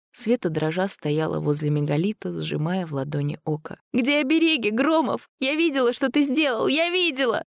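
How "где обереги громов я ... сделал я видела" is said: high, frantic outcry; screamed accusation. A narrator's reading. Girl pressed to shelter wall accusing Gromov, screamed accusation. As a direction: cry out the accusation in panic. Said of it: "закричала она".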